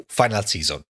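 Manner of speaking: words pushed out on a burp. Real, not acted. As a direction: talk through a burp. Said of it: "Scusate per il rutto".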